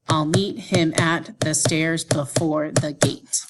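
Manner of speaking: "I'll meet him at the stairs before the gate" slow and measured, every second syllable stressed; iambic beat. Shown as a demonstration. Teacher giving a modern example, slow heartbeat stress on "I'll meet him at the stairs before the gate". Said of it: "And then the more modern example".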